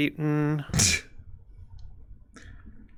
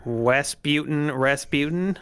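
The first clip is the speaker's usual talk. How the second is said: savoring the name; slower than usual. Pretend. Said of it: "I kinda like saying those words".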